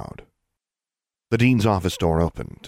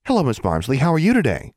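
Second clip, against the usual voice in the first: much higher and louder, sugary polite; extraordinary politeness; 9 semitones higher, 4 dB louder than usual. A narrator's reading. Alexandra greets the school secretary with exaggerated politeness. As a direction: overdo the politeness, sing-song. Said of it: "with extraordinary politeness".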